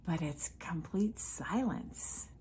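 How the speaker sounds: slow, softened near-whisper; hushed. Real, not acted. Speaker setting a dream scene for listeners, hushed. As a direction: drop to a slow hush, as if in sudden stillness.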